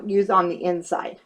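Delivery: hiccupy speech; words broken by hiccups. Real, not acted. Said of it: "I have the hiccups now".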